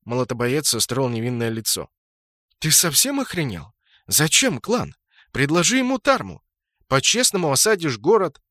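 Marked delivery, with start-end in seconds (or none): 2.6-8.4 higher, louder angry scolding. A narrator's reading. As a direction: tear into him for the stupid deal. Admin berates Brutto angrily.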